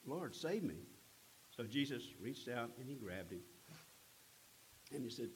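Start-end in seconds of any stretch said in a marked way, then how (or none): 0.1-0.9 high, urgent plea from a sinking man; cry for help. A narrator's reading. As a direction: call out to be saved, pitched up high. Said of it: "he cried out".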